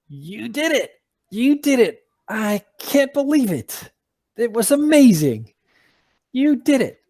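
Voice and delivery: high, thrilled squeaky eagle voice; excited little eagle. Acted. Tiny eagle congratulating the adventurers, high and thrilled. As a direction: gush with delight like a tiny bird.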